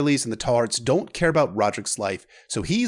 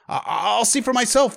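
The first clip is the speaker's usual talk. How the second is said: higher, louder, rushing to go see; urgent resolve; 11 semitones higher, 5 dB louder than usual. Acted. Prince announcing to the maester he will go and see. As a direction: snap into action.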